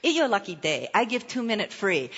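lightly imitated pidgin English; a light touch of pidgin English. Masseur repeating his offer to a jogger, pidgin English. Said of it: "He had pidgin English".

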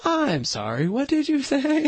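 sweetly controlled, mock-calm question; retold strained calm. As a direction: imitate a parent keeping calm through shock. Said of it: "she very calmly said".

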